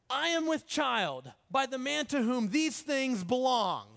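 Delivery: slow, declaimed messenger's announcement; solemn proclamation. Retold or imitated. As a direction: deliver the message deliberately, with weight. Messenger proclaims Tamar's message.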